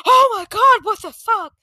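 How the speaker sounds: high, loud stunned outburst retold; shocked yelp, dropping off as it goes; imitating freaked-out shock. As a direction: blurt it like the freaked-out nurse. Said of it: "he's just freaking out and shaking".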